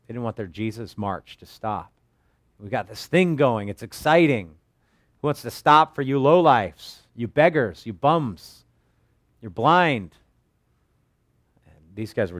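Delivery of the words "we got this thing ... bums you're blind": scornful crowd. Retold or imitated. Crowd scolding the blind beggars.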